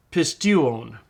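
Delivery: pistuon drawn out slowly; slow model word. Shown as a demonstration. Teacher models pistuon slowly for the class. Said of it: "The epsilon upsilon is the diphthong".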